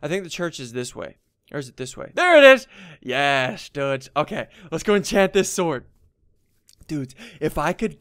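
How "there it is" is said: loud, higher-pitched burst of excitement; excited shout. Real, not acted. Player spotting the church he was looking for, excited shout. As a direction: call it out on sudden discovery.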